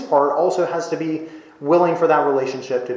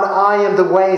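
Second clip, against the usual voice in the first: "I am the way" louder and brisker; punchy, raised "I am the way"; emphatic quote; 3 semitones higher, 4 dB louder than usual. Shown as a demonstration. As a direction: fire "I am the way" straight at the listener. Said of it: "You want to get back to God?".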